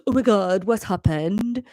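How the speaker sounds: lightly voiced Welsh teenager; teenage Welsh. Teenage son in the doorway sounds fearful, teenage Welsh. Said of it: "like, teenage Welsh".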